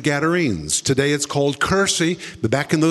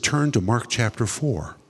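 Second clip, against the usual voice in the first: voice of the Holy Spirit; 5 semitones lower than usual. Retold or imitated. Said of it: "the Holy Spirit said".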